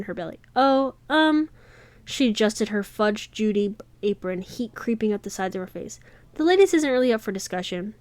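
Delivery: reading a romance novel aloud, evenly paced; audiobook-style read; story narration. A narrator's reading. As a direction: tell the story to listeners, voicing the characters lightly.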